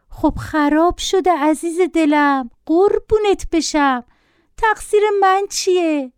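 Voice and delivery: put-on slow, high-pitched coaxing of a child; lightly voiced mother, high and drawn out; pleading mother. A narrator's reading. Mother placating her screaming son over a broken tablet, pleading.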